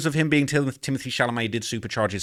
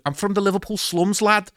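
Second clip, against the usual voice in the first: higher-pitched mock Scouse accent; rough Scouse attempt; 8 semitones higher than usual. Shown as a demonstration. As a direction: put on an amateur Liverpool accent. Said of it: "I can't really do the accent too".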